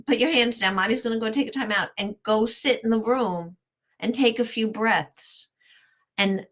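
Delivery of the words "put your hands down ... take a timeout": put-on light, quick, higher sing-song to a toddler; playful mommy. Shown as a demonstration. Mother to her three-year-old, playful and light. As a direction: make a game of stepping away. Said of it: "get a little playful with him".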